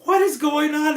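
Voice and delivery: imitated what is going on; confused. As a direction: ask it in baffled amazement. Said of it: "you're just like".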